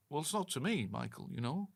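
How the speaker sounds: attempted Liverpudlian accent. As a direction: answer in a rough go at Liverpudlian. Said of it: "can you not do a Liverpudlian accent".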